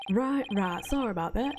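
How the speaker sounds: put-on apology in a country accent; light country-accented apology. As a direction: say sorry with a folksy country accent. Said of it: "I gave a country accent".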